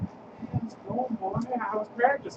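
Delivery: high, slow, oily greeting; imitating a creepy coach sliding up. Coach greeting his player, in a creepy drawn-out voice. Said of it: "Did you hear how he said it?".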